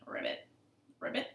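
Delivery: small toneless pig ribbit. Acted. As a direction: let out little croaked ribbits. Pig making frog noises.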